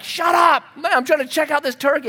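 high, loud snap at the dog; retold shout to hush a barking dog; exasperated yell. Yelling at his barking dog.

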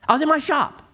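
put-on frustrated young man. Preacher imitating the young man insisting he was in his shop. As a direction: toss it off, still annoyed.

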